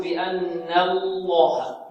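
slow بأن الله with the first L light, the second heavy; wrongly thinned first lam. Shown as a demonstration. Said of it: "لا نرقق اللام الأولى".

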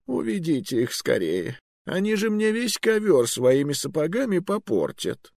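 put-on high, sly old sorcerer voice; old magister. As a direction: tease them as a cunning old wizard.

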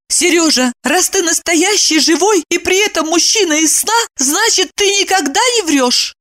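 high, strict; stern question. A narrator's reading. Evdokia sternly questions Seryozha. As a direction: demand the truth. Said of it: "строго спросила".

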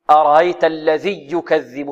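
الذي يكذب run together with a doubled y; wrongly merged ya. Shown as a demonstration. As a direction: recite الذي يكذب with the long ī lost into the next y. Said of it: "هذا خطأ". (الذي يكذب بياء مشددة خطأ)

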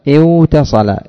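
اوتصل with the و sounded; original form. Shown as a demonstration. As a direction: slowly give the unassimilated اوتصل. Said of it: "ماذا تقول؟".

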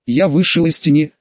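ordinary delivery, nothing marked

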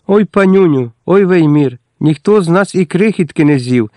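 crying plea. A narrator's reading. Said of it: "заплакала Естерка".

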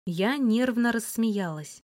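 plain reading voice

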